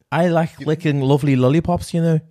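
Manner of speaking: Liverpool accent. Shown as a demonstration. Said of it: "he says you know all the time".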